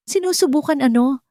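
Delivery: high, furious retort; throwing her words back at her; angry shout. A narrator's reading. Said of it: "sigaw ni Esteban". (galit na sigaw)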